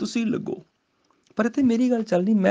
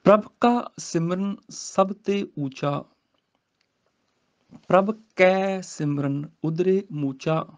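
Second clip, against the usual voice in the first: slow scripture recitation; slower than usual. Shown as a demonstration. Teacher recites the verse for students, slowly. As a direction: chant the verse slowly, rising.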